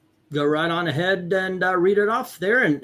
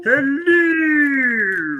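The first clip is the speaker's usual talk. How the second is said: loud, higher drawn-out greeting; called-out hello; 9 semitones higher, 4 dB louder than usual. Real, not acted. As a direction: sing out a welcome. Greeting Eric who just joined.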